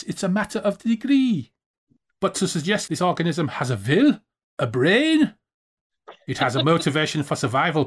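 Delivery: put-on a weak, hammy German accent. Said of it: "are you gonna do the German accent".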